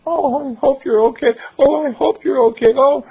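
loud, high anguished calling; anguished holler. Acted. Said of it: "anguishedly hollered down to him".

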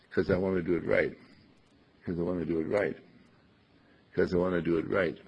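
'cause as one syllable, run into "I want"; casual contraction. Shown as a demonstration. Teacher showing careless speech, casually contracted 'cause. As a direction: slur "because" down to a casual 'cause. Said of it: "not 'cause I want to do it right".

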